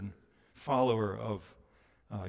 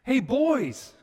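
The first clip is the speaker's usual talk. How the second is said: much higher, louder friendly call; affectionate call; 10 semitones higher, 9 dB louder, slower than usual. Retold or imitated. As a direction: hail the boys warmly from the beach. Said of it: "It's an affectionate call".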